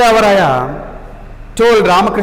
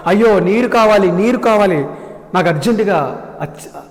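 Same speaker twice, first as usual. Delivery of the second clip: shouting for water. Acted. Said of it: "గట్టిగా అరిచారు".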